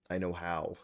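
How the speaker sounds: breathy whisper to self. Real, not acted. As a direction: whisper it under your breath. Quiet aside to self.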